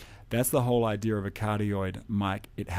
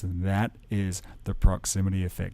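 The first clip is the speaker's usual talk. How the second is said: radio announcer voice. Shown as a demonstration. Teacher demos proximity effect, a close radio announcer voice. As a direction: lean right into the mic, voice lowered. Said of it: "I have a radio announcer voice".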